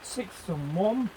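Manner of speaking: very slow, drawn-out bingo call; bingo caller. Pretend. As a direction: stretch the numbers like a bingo caller. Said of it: "slowest bingo caller in Britain".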